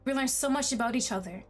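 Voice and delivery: lightly voiced pleading, possessive boyfriend; desperate, obsessive lover. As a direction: read as an unravelling lover, understated panic. Reads love interest's desperate monologue.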